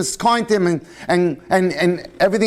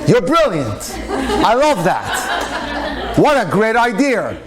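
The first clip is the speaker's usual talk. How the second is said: laughing delight; 3 semitones higher, slower than usual. Acted. Delighted at the clever proposal.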